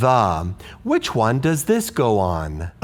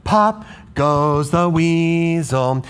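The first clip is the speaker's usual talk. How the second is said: right rhythm; 3 semitones higher, slower than usual. Shown as a demonstration. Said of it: "This syllable is on the fourth one".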